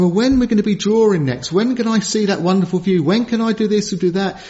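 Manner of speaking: quick, whiny complaining; moaning soldier. Retold or imitated. Soldier moaning to his sergeant, in a quick, whiny complaint. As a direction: grumble like a bored soldier on patrol. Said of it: "you were moaning".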